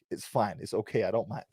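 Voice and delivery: mumbled under his breath, resigned; muttered aside. Acted. To the chat after admitting his B Tech, muttered. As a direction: drop it to a sulky mutter.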